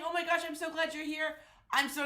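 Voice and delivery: stuffy blocked nose; congested. Real, not acted. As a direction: talk through a congested nose. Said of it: "I sound very congested".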